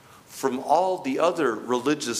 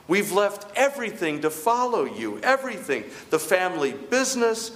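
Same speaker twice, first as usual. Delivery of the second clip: a lightly raised, insistent Peter lecturing his master; indignant Peter; 5 semitones higher than usual. Pretend. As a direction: Peter pressing Jesus to get with the program. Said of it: "That's what's going through Peter's mind".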